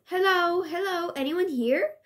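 high calling voice. Acted. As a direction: call into the room.

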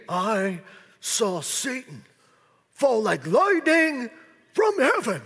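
slow, heavy, ominous I saw Satan; solemn rebuke. Retold or imitated. Preacher showing the wrong reading, slow solemn rebuke to disciples. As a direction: drag it out like a grim warning. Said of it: "now see, that could be".

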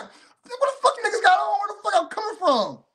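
high, laughing mock outrage; incredulous, high-pitched laughing rant; laughing disbelief. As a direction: retell the shock while cracking up. Retold disbelief at outfits.

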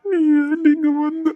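the question breaks into tears; asking the ex why she came, crying; crying plea. Acted.

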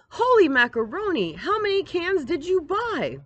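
shocked exclamation. Acted. Sister seeing her brother's pile of cans, astonished. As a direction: gasp it out, astonished.

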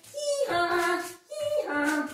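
sung hee-haw bray; donkey bray. Pretend. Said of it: "pretend you're a donkey".

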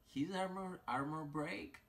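high excited praise. Real, not acted. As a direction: gush about it. Excited about champion.

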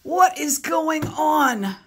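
high, loud playful alarm; mock alarm. Parent hamming up shock for child reader.

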